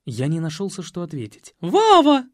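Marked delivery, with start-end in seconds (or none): 1.6-2.3 high, loud ringing call. Acted. Маменька зовёт сына из холла — звонкий высокий крик. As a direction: call Вава shrilly from the hall. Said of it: "зазвенел из холла голос".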